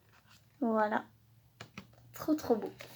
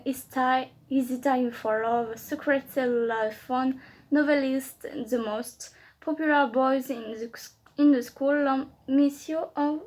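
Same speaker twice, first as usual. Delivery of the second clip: English read in a strong French accent; French accent on every English word. Real, not acted. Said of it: "Voilà, mon accent anglais, c'est de la grosse dope".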